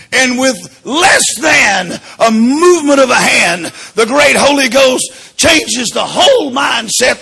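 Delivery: preaching. Acted. Preaching at full force.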